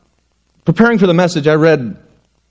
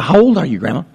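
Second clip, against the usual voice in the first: put-on playful child voice, pitched up; little girl; faster than usual. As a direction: ask like a curious little girl. Little girl questions grandma.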